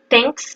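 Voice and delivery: THANKS ending on a clear S; sounded final S. Shown as a demonstration. Teacher showing the S to add at the end, sounded final S. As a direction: finish THANKS with an audible S. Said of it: "il faut rajouter un S".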